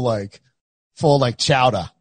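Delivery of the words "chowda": lightly put-on Boston accent, final r dropped; mock Boston accent. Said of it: "if I were boss, I think I would, like, go full".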